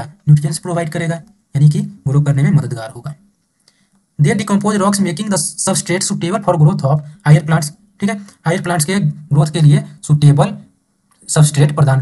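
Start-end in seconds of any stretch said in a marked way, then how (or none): 4.2-7.7 slow, deliberate textbook reading; measured dictation pace; reading aloud. Acted. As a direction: read it out word by word for the class. Teacher reads textbook line aloud.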